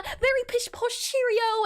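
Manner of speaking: playful pish-posh British; lightly hammed-up British English; British accent. Shown as a demonstration. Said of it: "go a little bit on the British side".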